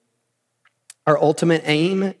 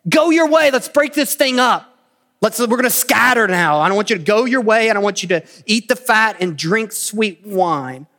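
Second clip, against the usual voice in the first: raised command; 5 semitones higher, 3 dB louder than usual. Retold or imitated. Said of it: "Then they said".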